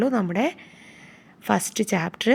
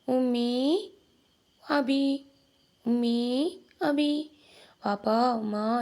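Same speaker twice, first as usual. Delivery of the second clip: lamb calling parents; 3 semitones higher, much slower than usual. Acted. Lost lamb answers the lion, calling for its parents. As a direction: cry out for mum and dad like a lost lamb. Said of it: "എന്നിങ്ങനെ വിളിച്ചുകൊണ്ടിരിക്കുവല്ലേ".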